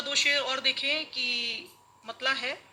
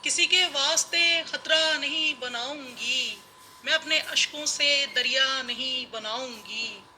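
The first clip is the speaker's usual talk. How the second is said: measured mushaira verse delivery; ghazal recitation. Acted. (मुशायरे में ग़ज़ल पढ़ने का अंदाज़)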